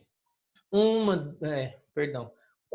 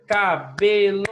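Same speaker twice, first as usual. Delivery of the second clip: ca-be-lo, each syllable of cabelo said slowly and louder; slow clapped syllables; 6 dB louder, much slower than usual. Shown as a demonstration. Teacher clapping out syllables for the class, slow and louder. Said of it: "O professor deu a diquinha de bater a palma".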